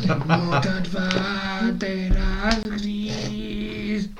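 very slow, high, eerie alien chant; alien transmission voice. Pretend. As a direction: drag each word out like an alien broadcast. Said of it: "That's the transmission we just got from the aliens".

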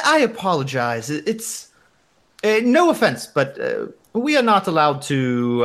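put-on hesitant, apologetic receptionist with a German accent; Ramona. Receptionist declines fraternizing with a guest, halting German accent. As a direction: politely turn him down in a rough German accent. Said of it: "some variation of my shitty German accent".

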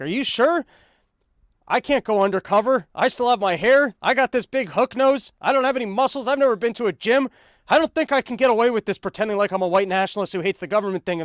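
high, loud, whiny protest of a nervous dork; panicky nerdy kid. Retold or imitated. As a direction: squeal it like a scared nerd begging off. Voicing nerdy recruit's panicked protest.

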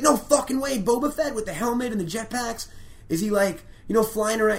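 retold fan losing it with joy; giddy fanboy excitement. Comic telling a podcast friend about Patton, hyped fan squeal. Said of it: "He's like".

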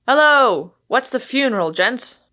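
loud, high-spirited hail; boisterous greeting to the whole company; uproarious. A narrator's reading. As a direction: burst in like an uproarious umpire. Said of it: "with the air of an uproarious umpire".

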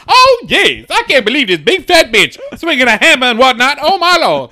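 squealing high laugh through the words; laughing hard, barely getting it out; real laughter. Real, not acted. To his co-host, laughing helplessly at the joke. Cracking up at the story.

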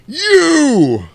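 high, loud shout of one word; mock accusing call. Iceman calling Maverick out on deck, high loud shout. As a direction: call him out across the deck.

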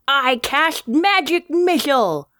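slushy sh for s in "I cast magic missile!"; lateral lisp. Shown as a demonstration. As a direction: air past the tongue sides on "cast" and "missile". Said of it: "When practicing this lisp, try my favorite line".

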